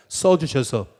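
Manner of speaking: preacher leading a call-and-response; slow call to repeat. Shown as a demonstration. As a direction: declaim it slowly so everyone can repeat it. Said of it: "또 한번 따라해 보겠습니다".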